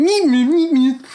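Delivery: high, loud robot bleeps; BB-8 droid beeps. Pretend. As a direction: chirp it out like a little droid. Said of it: "It'll sound like B B eight".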